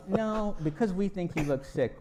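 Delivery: the guard telling Liz's mom she's going home; guard's punchline. Retold or imitated. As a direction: deliver the guard's verdict with a grin.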